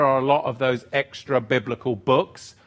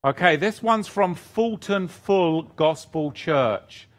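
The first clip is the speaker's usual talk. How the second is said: ordinary talk, nothing marked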